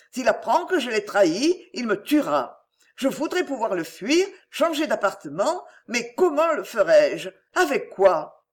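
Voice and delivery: lightly acted distressed woman, plaintive; self-pitying mother. Mother angling for money from worried parents, mildly plaintive. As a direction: play the helpless victim, understated.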